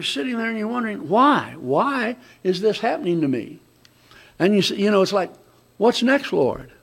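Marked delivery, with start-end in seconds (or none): 1.1-5.3 worried whine. Shown as a demonstration. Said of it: "But it's the wrong inflection". 5.8-6.7 wrong inflection. Shown as a demonstration. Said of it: "But it's the wrong inflection".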